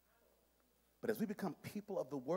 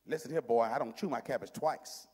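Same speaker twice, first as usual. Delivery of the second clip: low, stern grandfather voice; old-school grandfather; 9 semitones lower than usual. Acted. Grandfather refusing to repeat himself to boy, old-school sternness. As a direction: lay down the law like a grandfather, pitched low. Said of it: "your own grandfather told you".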